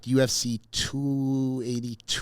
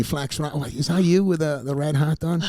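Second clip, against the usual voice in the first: excited fan calling out; 5 semitones higher than usual. Pretend. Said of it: "you'll be like, texting me".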